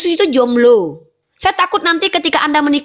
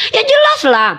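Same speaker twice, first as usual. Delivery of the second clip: emphatic; 9 semitones higher than usual. Real, not acted. Emphatic answer after host's jab.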